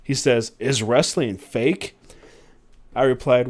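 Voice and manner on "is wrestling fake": put-on slow question in a light British accent. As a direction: ask slowly, hint of British manager. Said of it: "with a British accent".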